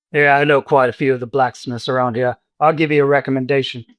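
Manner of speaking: lightly voiced old barkeep; a hint of a chatty innkeeper; friendly old barkeep. Dernan voiced by game master.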